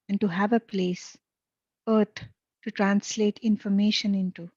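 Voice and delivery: measured, calm read to listeners with eyes closed; channeled reading. Acted. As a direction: read it like a guided meditation. Reads channeled text, eyes closed.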